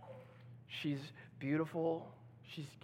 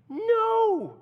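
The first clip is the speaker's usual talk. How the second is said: sharp no; 10 dB louder than usual. Real, not acted.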